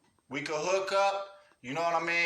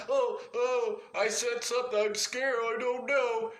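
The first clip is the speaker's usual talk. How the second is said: whiny mock fear, a bit higher; mock scared; 4 semitones higher than usual. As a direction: mimic a timid coward fretting.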